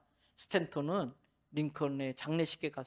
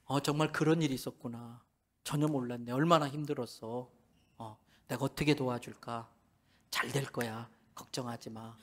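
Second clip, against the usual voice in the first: the same comforting lines fading softer and softer; getting quieter; 6 semitones lower, 6 dB quieter than usual. Shown as a demonstration. Pastor mimics the men repeating, voices fading away quietly. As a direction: let each line sink softer, almost to nothing. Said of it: "점점 소리가 작아지고".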